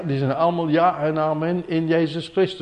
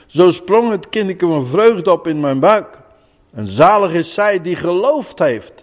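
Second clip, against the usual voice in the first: solemn, raised scripture reading; Bible reading. Acted. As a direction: read the verses out with weight. Reads Bible passage aloud. (plechtig voorgelezen Bijbeltekst)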